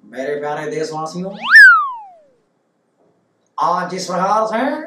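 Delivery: Modi impression. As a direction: speak like a prime minister addressing the nation, unhurried. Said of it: "तो उनका reaction क्या होगा?".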